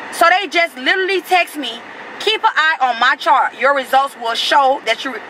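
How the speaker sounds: real anger. Real, not acted. Telling viewers the test results may be late, exasperated angry venting. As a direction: complain hotly, building. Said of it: "I'm so mad I can't even read right now".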